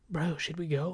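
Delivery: hushed, whispery mock bro voice; exaggerated bro talk. Teen buddies plotting a taco run, exaggerated whisper. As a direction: whisper it like an overdone secret plan. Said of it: "we didn't talk like that".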